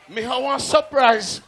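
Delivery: laughing. Real, not acted. MC teasing a surprise.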